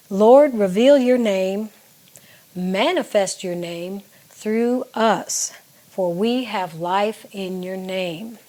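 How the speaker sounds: slow, measured recitation of draft lyrics; reading lyrics aloud. Shown as a demonstration. Songwriter reading verse one to viewers, slow and measured. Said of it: "here's the first part of the first verse".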